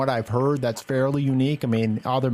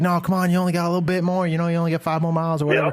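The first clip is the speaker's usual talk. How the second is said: cheering on; 7 semitones higher, much faster than usual. Retold or imitated. Cheering on tired runners.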